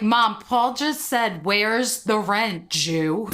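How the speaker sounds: slow, drawn-out retold outrage; stretched-out mock-scandalised quote; retold complaint to mom. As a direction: report it to mom word by word, slowly. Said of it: "I called my mom and I was like".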